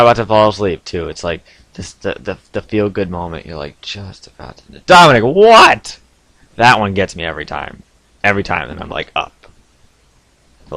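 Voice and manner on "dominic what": loud, high, drawn-out mock shout; hammed-up name call, then startled answer; acted call and reply. Replaying the call just as he falls asleep, loud and startled.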